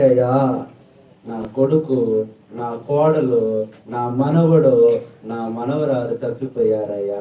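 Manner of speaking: lightly voiced old mother, slow; a hint of a grieving grandmother; old woman pleading. Abandoned old woman at the bus stand, mildly slow and pleading. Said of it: "అంటుంది".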